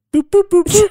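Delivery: high loud sung boops; jingle boops. Pretend. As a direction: belt the boops as a jingle ending. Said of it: "can we try to make a song out".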